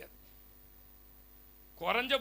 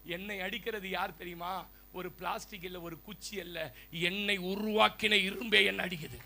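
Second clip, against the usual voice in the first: iron's reply; 4 semitones lower than usual. Acted. Iron replying to the plastic gate, low and grave. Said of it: "அது சொல்லிச்சான்".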